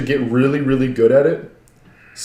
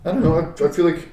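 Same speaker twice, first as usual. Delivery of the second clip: voice crack; 5 semitones higher than usual. Real, not acted. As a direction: voice cracking up high. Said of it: "nice voice crack for myself".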